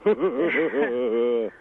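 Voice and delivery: brief real laugh. Real, not acted. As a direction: chuckle at your own remark. Laughs at his own Oz line.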